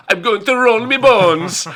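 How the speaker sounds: slow, hammed-up pirate accent. Imitating gamers playing a pirate army, in a slow stage-pirate accent. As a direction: growl it like a stage pirate, drawn out. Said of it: "without trying the accent".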